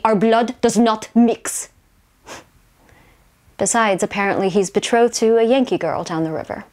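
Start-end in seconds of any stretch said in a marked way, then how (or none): 0.0-1.7 slow, measured maternal pronouncement; lightly voiced mother laying down the law, slowly; a hint of a stern mother, word by word; disapproving mother. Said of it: "my own mother disagrees".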